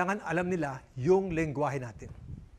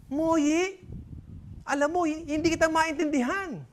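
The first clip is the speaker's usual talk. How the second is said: higher, puzzled shopkeeper; raised-pitch confused dad; confused father; 8 semitones higher than usual. Acted. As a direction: sound baffled by the word.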